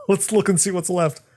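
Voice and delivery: high, casual demon banter; demons chatting. Retold or imitated. Demons go look at the shattered planet, high and casual. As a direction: toss it off like curious demons. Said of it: "all the demons talk".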